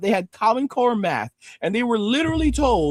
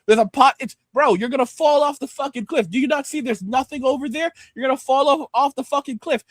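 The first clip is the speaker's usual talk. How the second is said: exasperated; 5 semitones higher than usual. Real, not acted. Exasperated warning to listener.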